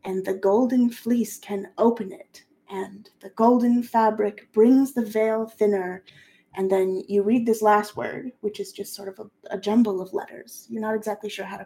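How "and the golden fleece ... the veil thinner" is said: slow, measured recital; solemn slow reading; reading an incantation. Acted. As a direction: intone the ancient text. GM reads incantation.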